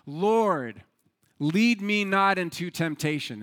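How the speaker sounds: acted prayer, drawn out and projected; the man's first plea to God; earnest prayer. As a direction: pray it out with weight on each phrase. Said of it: "and he prayed".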